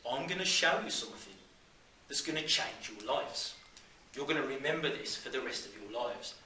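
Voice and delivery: Brummie teacher making a promise; Brummie accent. Acted. Teacher promises kids an experience to remember, in a Brummie accent. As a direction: address the class in broad Brummie. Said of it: "in his best Brummie accent".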